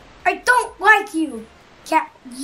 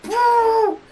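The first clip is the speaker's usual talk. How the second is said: booing; 6 semitones higher, 5 dB louder than usual. Real, not acted. Booing the opponent.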